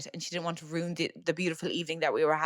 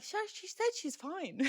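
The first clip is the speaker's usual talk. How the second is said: high, slow, airy brush-off; mock dismissive; 12 semitones higher, 7 dB quieter, slower than usual. Family brushing off the aunt's worry, airy and mock dismissive. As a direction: wave it away like it's nothing.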